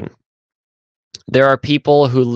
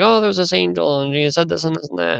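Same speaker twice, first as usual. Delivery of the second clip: put-on high-pitched child recounting events; imitated little girl; 7 semitones higher than usual. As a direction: play a girl telling her mom. Girl reporting to mother.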